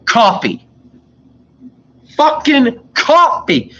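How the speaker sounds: imitating a curt customer, pitched high and slow on fucking coffee; mock rude customer. Worker mimics the rude coffee customer, high mock grumble. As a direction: bark the order like a grumpy customer.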